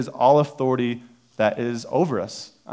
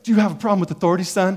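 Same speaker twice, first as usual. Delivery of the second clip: stern cop; 7 semitones higher, 3 dB louder, faster than usual. Retold or imitated. Cop confronts him.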